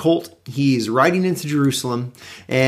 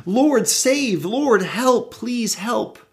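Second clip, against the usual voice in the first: pleading crowd; 9 semitones higher, much slower than usual. Retold or imitated. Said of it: "they're saying".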